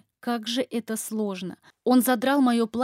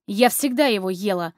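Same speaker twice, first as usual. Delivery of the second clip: defiant; 4 dB louder than usual. Acted. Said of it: "с вызовом сказала я".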